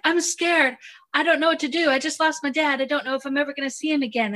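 mock-fearful young woman pouring it all out; scared Belle. Belle voiced as scared and lost, in a high mock-fearful tone. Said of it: "They'd be like".

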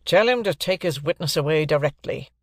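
understated, curt order of disgust. Acted. Guardian orders the clerk to remove the witness, disgusted. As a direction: dismiss him with mild distaste. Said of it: "in extreme disgust".

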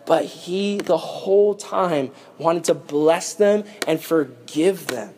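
slow, softened preaching; hushed turn. Real, not acted. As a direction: drop from fervour into gentle, measured words. Preacher turns from outrage to forgiveness.

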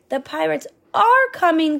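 high, alarmed gasp. Acted. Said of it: "gasped the villagers".

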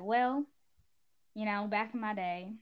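a hint of a Southern old-timer; slight Southern accent. Grandparent telling grandchildren about this, slight Southern accent. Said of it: "did you move to Alabama?".

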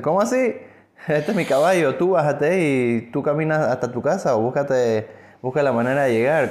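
the rich man protesting his own horse; indignant rich man. Acted. (el rico, indignado y alzando la voz)

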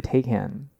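"Taycan" with an ay first and a full "can"; Tay-can pronunciation. Real, not acted. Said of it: "people saying Taycan and Taycan".

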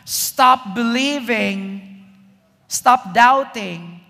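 slow, deliberate command; commanding Jesus. Acted. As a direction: spell out each stop slowly. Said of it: "Jesus says".

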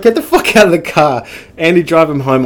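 loud, high mock exasperation; retold angry order. Cop mum sending son's mate out of car, mock-angry order. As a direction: imitate a furious mum taking charge.

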